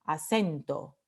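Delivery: "acento" stressed on the E of CEN, low falling end. Shown as a demonstration. Teacher answering which vowel is tonic, "acento" stressed on CEN. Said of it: "Es la E".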